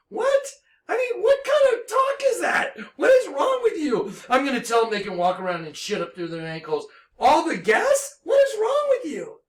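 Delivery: incredulous near-squeal at the insult; outraged disbelief. Real, not acted. Ranting about Karen, high outraged disbelief.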